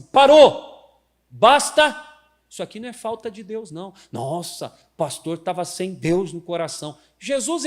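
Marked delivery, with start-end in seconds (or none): 0.0-2.1 loud, high commanding stop; firm shout. Shown as a demonstration. Pastor demonstrates a firm rebuke, shouted. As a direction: slam the brakes with your voice. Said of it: "você vai ter que falar assim".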